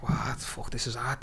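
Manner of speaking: 3 mutter it to yourself, drained; 1 whispered. Retold or imitated.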